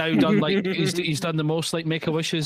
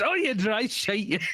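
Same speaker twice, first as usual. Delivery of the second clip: imitating Dax; 7 semitones higher, slower than usual. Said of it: "I'd ever heard you say that".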